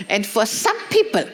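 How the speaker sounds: laughing retelling. Retold or imitated. Wife retells her husband's sermon joke, laughing. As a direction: laugh through the punchline.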